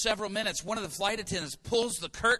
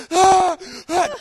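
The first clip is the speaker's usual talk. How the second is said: very loud high wailing ah; overcome cries; 11 semitones higher, 15 dB louder than usual. Retold or imitated. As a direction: cry out overwhelmed. Tim crying overwhelmed.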